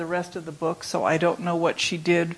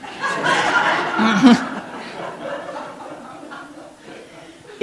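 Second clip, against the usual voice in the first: a long airy laugh that rises; long breathy laugh; 4 semitones higher, 5 dB louder than usual. Real, not acted. Reader laughing at the baseball field joke, long breathy laugh.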